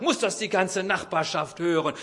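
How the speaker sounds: wife loudly shushing the quarrel; loudly spoken. Retold or imitated. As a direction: throw the question out loudly. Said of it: "Da sagt die Mutter lautstark".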